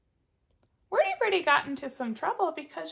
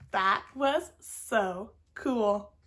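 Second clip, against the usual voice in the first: lower, very slow and cool; laid-back squirrel; 5 semitones lower, much slower than usual. Acted. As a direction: drawl it out cool. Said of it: "And Squirrel says".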